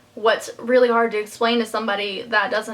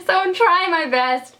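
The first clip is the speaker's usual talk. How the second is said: apologetic laugh; 7 semitones higher than usual. Real, not acted. Apologetic laugh about her speaking.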